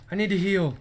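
urgent call for health. Real, not acted. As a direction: say it like you're about to die. Urgent, then muttered repeat.

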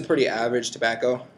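talking around hookah hose; hookah mouthpiece in mouth. Real, not acted. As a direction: lips closed on mouthpiece. Seen 0: Hookah mouthpiece held in lips from 0.4 to 2.8s.

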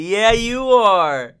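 put-on sing-song good boy; pet baby talk. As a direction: praise the cat like a baby.

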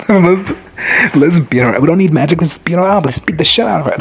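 rally the crew for a brawl; fired-up rallying. Real, not acted. Fan urges fighting the villain.

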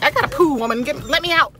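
high-pitched pretend dog voice; voiced dog's plea. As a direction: speak up as the impatient dog. Voicing her dog's urgent plea.

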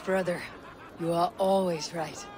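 amused, with a chuckle; laughing. Acted. Eivor laughing as they agree with their brother. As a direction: tease him through a laugh.

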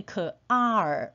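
"可R" as the k sound then a long "ar", spelling out car; sounded-out syllable. Shown as a demonstration. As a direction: break car into "可R", k plus curled-tongue ar. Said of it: "所以car是念可R". ("可R"拆开拼读)

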